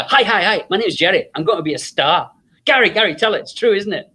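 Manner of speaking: put-on high, bouncy pitch to the girls; eager Jerry. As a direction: sell yourself like a future star.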